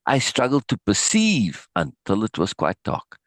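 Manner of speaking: steady narration read from the page; reading a book aloud. Acted. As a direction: read the passage to the class, lightly voicing the dialogue. Reads book passage aloud.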